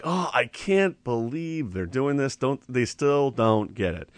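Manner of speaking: slow, disbelieving sigh of a voice; imitating someone fed up; exasperated indignation. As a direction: let it drag with exasperation. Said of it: "to be indignant is like".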